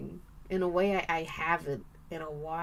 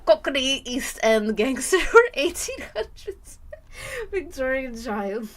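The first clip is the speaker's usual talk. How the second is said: laughing; 4 semitones higher, 7 dB louder than usual. Real, not acted. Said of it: "Americans' British accents always range from".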